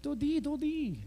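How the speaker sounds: high, mock British child's call; hammed-up British vowels on a high-pitched call; British accent. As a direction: playfully imitate a little girl's British accent. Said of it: "British accent".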